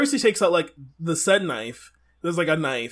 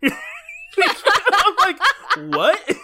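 mock shock; 14 semitones higher, 4 dB louder, much slower than usual. Reacting to attraction line.

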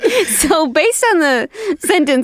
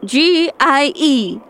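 slow spelling; 2 semitones higher, slower than usual. Shown as a demonstration. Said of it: "can you spell it?".

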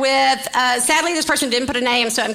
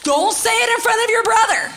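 little daughter; 9 semitones higher than usual. Retold or imitated. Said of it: "she's like".

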